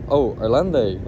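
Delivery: loud mock-French "Irlande"; imitated French accent. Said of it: "that's not how I say it".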